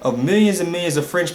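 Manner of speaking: high-pitched, incredulous outburst. Retold or imitated. Preacher scoffing at a tribes theory, incredulous. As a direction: react in mock disbelief, voice leaping up. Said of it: "I'm like, what".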